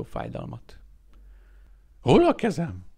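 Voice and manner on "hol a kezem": higher, louder, rising panic; higher panicked repeat; asking again, louder. A narrator's reading. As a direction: ask once more, fear creeping in. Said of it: "kérdezte újra".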